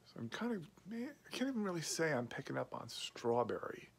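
speaking while smoking pipe; talking around a pipe. Real, not acted. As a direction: pipe stem between lips. Seen 5: Pipe stem held between lips throughout while speaking, hand on bowl.

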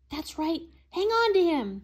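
shrill high screech; excited high shriek. A narrator's reading. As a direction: screech it out, urging her on. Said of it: "screeched the cottage owner".

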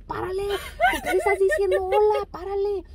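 laughing retelling. Retold or imitated. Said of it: "Y yo le dije".

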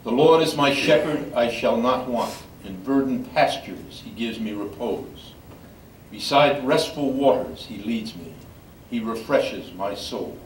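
measured, solemn reading voice; scripture reading. Acted. Lector reading scripture to the congregation, solemn and measured. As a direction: read it out to the gathered mourners. Psalm read at service.

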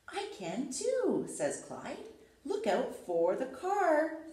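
lively storybook reading with character voices; reading to children. Acted. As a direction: read aloud like bedtime story time. Reads picture book to children.

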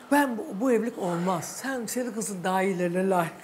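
understated, even-tempered example; without anger. Shown as a demonstration. Host showing the mother how to refuse, without anger. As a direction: model a calm way of refusing. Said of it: "Sinirlenmeden konuş kadına".

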